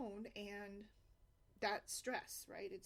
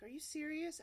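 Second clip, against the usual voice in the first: higher-pitched incredulous question; retold disbelief; 7 semitones higher, 3 dB louder than usual. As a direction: imitate a man who can't believe the gift. Homeless man disbelieves the gift.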